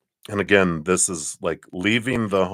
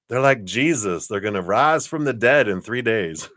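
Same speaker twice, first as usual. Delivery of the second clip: put-on lilting, higher Southern accent; 4 semitones higher than usual. Reader saying they'll rise like Jesus, playful Southern accent. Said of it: "speaking in a Southern accent".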